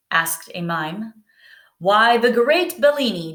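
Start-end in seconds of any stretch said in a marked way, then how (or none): 1.8-3.3 exclaiming. Acted. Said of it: "he exclaimed".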